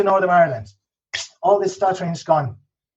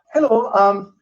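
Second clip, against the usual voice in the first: high, melodic Northern Irish lilt; lilting Northern Irish, pitched up at the end; Northern Irish accent; 7 semitones higher than usual. Shown as a demonstration. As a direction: demonstrate a sing-song Northern Irish accent. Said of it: "The accent there is very melodic".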